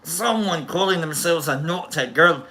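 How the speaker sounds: lightly put-on Scottish voice; playful touch of Scottish; Scottish accent. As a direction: slip into a mock Scottish accent. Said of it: "in a Scottish".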